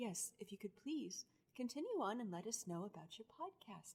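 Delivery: very soft, hushed public-radio presenter delivery. Asking another speaker to go on about their podcast: NPR voice. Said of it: "Or I could do my N P R".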